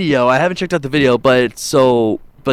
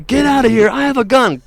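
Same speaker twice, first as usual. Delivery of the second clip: retold yell; 9 semitones higher than usual. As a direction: bark it like a scared homeowner. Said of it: "and he yelled".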